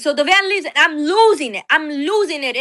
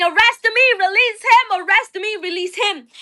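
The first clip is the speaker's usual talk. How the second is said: pleading yell; 6 semitones higher than usual. Retold or imitated. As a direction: offer yourself in his place. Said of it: "And I keep saying".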